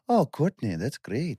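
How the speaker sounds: imitating Johnny's Northern Irish lilt; a light mock Irish accent; quick Irish-accented praise. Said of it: "accent alert".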